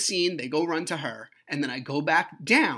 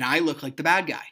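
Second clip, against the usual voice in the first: louder, emphatic complaint; loud frustration; 5 dB louder than usual. Retold or imitated. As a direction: push it out, exasperated. Frustrated repeat, first take forceful.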